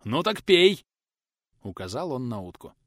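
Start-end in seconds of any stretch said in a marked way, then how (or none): 0.0-0.8 louder harsh command; teacher grimly ordering the boy to drink; grinning order. Acted. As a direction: force it on him, grimly. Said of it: "оскалился Булыцкий".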